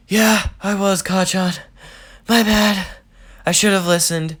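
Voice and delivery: a squeaky, eager sorry; sheepish Deku. Acted. Deku apologizes to Kacchan for almost being late, high and eager.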